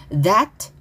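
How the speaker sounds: "That" with a light final T; weak final T. Shown as a demonstration. Teacher showing students "That" with weakened T. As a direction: barely release the T ending "That". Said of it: "to 약하게".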